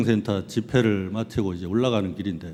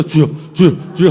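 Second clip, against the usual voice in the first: panicked prayer; 3 semitones higher, 7 dB louder than usual. Retold or imitated. Panicked praying beside driver.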